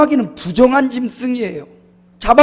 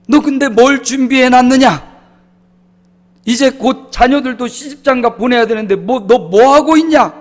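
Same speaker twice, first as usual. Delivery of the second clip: raised, louder stern father questioning; a stern father pressing his son; father's scolding; 4 semitones higher, 4 dB louder than usual. Retold or imitated. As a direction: demand it like a disappointed father. Father scolding son about future.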